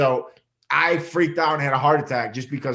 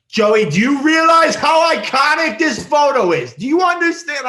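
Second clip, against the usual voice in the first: much higher, loud, shrieking excitement; friends freaking out; 13 dB louder than usual. Retold or imitated. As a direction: gush like a starstruck friend. Gay friends freaking out over photo.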